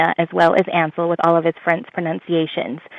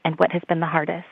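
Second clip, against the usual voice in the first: whispering; 7 dB quieter than usual. Real, not acted. Playful second question, whispered.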